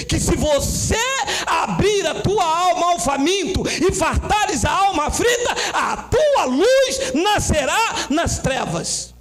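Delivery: high, driving sermon climax; fervent preaching. Real, not acted. Preacher rebukes false teaching before the church, full-force preaching. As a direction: build urgently into a ringing verse.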